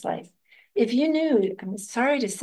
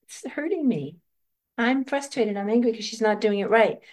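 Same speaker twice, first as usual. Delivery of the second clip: frustrated inner voice; 2 semitones higher than usual. Retold or imitated. Mother's inner voice complaining about her daughter, a touch frustrated. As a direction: voice the fed-up inner critic, lightly. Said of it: "listen to this voice right now that's saying".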